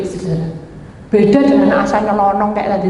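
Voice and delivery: ordinary talk, nothing marked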